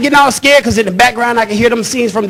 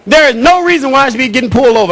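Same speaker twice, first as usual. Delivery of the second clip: scared pleading; 4 semitones higher than usual. Retold or imitated. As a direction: talk yourself out of trouble, frightened. Scared driver pleading to himself.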